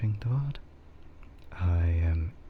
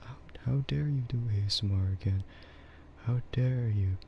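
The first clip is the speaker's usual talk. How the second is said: higher-pitched, playful imitation of an offended viewer; mock outrage; 4 semitones higher than usual. Imagined viewer objecting to another ASMR stream, mock outrage. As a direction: pretend to be an indignant viewer, lightly. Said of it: "maybe people are actually like that".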